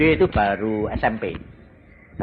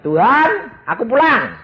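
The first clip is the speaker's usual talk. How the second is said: calling out; 10 semitones higher, 5 dB louder than usual. Retold or imitated. Calling out to Jesus in heaven.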